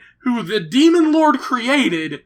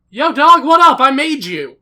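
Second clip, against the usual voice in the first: mock casual greeting; 5 semitones higher, 6 dB louder than usual. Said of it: "And M C's like".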